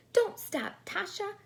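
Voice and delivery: high, loud whiny doll plea; doll crying out. Acted. The doll cries out to Natasha, high and whiny. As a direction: wail it up high, don't let her stop. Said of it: "cried the doll".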